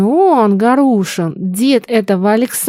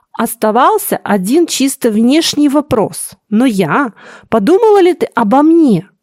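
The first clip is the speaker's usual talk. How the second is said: trembling voice; 2 semitones higher, 3 dB louder than usual. Acted. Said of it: "С заметной дрожью в голосе".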